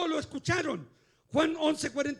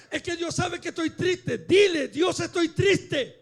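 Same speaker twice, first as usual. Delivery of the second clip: raised voice, punching the commands; impassioned preaching; 6 dB louder than usual. Real, not acted. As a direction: urge the congregation on loudly. (predicación enérgica en voz alta)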